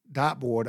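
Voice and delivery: "dartboard" echoed as dot-board, no r in dart. Retold or imitated. Puzzled son-in-law echoing her word, R dropped. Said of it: "She pronounced it dot".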